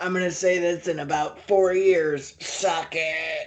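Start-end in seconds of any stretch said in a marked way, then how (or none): 2.4-3.5 put-on robotic voice, quieter. Imitating Yankem speaking into the camera: robotic voice as Yankem. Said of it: "With, like, the robotic voice".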